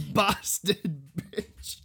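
mock Australian insult; Australian accent. Shown as a demonstration. Adding to the one phrase, Australian accent. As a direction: throw the insult in broad Australian. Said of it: "Australian, I can do".

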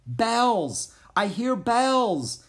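high, loud, drawn-out call; excited shout. A narrator's reading. Annie hearing bells in the storm, excited shout. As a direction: shout out a discovery. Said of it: "Annie shouted".

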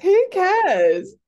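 high loud scoff; dismissive. Real, not acted. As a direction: toss it off with disbelief. Mocking dismissive outburst.

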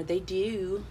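Baltimore-accented "do", vowel fronted. Shown as a demonstration. Co-host replays own slip in a Baltimore accent. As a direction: repeat it with a Baltimore "do". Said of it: "like I was from fucking, like, Baltimore".

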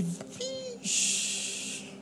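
high, very soft exclamation; stunned "vixe". Retold or imitated. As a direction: squeak it out faintly in shock. Stunned reaction after the crash.

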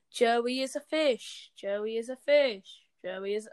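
slow deadpan silly line; silly joke attempt. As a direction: drag it out to force a laugh. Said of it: "I can't make someone laugh like that".

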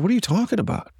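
retold panic at being caught out; alarmed disbelief. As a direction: sound suddenly alarmed, caught off guard. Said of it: "now I'm freaked out".

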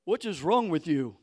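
low, soft sneering question; quiet mock disdain. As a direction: mutter it with contempt. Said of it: "you speak in tongues".

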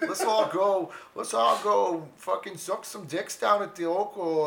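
high, drawn-out mock-Canadian hoser; Canadian accent. Hoser inviting everybody in a high, hammed-up Canadian accent. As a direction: ham up a high Canadian rallying call. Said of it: "Let out the inner Canadian".

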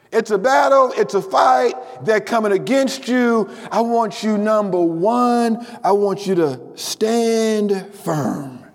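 God commanding the embattled people; preaching at full force. Acted. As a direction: drive the command home. Preacher voicing God's command.

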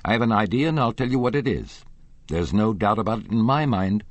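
high, insistent announcement; emphatic declaration. Acted. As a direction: declare it high and with full conviction. Rider declares he knows the culprit.

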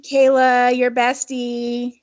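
slow, drawn-out sultry tone; sexy voice. Pretend. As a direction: purr it out slowly. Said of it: "Why don't you do your sexy voice".

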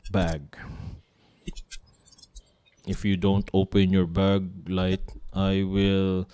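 slow, quiet pretend bad guy threat; slow theatrical villain menace. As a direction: drag out each threat like a storybook villain. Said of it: "I will be the bad guy".

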